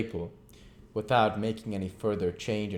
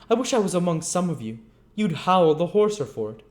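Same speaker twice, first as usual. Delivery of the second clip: growled curse; 9 semitones higher, 6 dB louder than usual. Acted. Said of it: "Sikes growled forth this imprecation".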